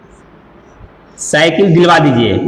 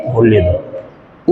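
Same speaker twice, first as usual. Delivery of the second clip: slow model phrase; 8 semitones lower, much slower than usual. Shown as a demonstration. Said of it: "जैसे".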